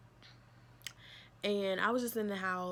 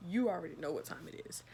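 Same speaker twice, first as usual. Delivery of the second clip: whisper. Real, not acted. Whispered repeat of the warning.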